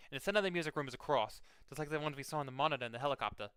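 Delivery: put-on game narration in a tentative Boston accent; amateur stab at a Boston accent. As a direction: read briskly with a light Boston accent. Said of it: "I'm trying it out a little bit".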